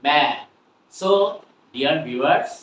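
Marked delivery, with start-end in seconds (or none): 0.1-0.3 "ম্যাড" with its last consonant swallowed; silent final T. Shown as a demonstration. Teacher repeats mat as "ম্যাড", final T silent. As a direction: stop "ম্যাড" right after the vowel. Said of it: "কি বলবো?".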